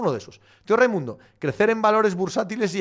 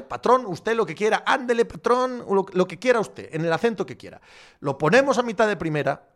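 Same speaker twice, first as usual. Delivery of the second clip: put-on a lightly done Mexican accent, 'ándele, patrón'; mock Mexican accent. Owner talking to the fans in a mock Mexican accent. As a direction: play the servile Mexican owner. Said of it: "con acento mexicano".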